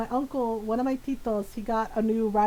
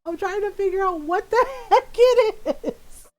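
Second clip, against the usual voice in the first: high-pitched comic exasperation, building louder; exasperated; 7 semitones higher, 5 dB louder than usual. Retold or imitated. Grown child arguing with mom, mock exasperated. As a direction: plead in mock frustration, stretching the last words.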